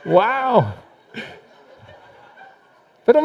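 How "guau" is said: dog bark. Pretend. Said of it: "plática de perros".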